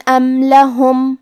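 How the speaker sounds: slow ام لہم with the tanween said clearly, no nasal; ام لہم with a plain clear nasal stop; clear izhar. Shown as a demonstration. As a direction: say ام لہم slowly, no ghunna. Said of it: "حروف الاظہار".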